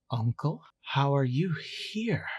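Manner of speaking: puzzled, questioning disbelief; confused. Acted. Hawking faces the figure of his uncle, confused. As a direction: ask it haltingly, quite confused. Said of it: "quite confused".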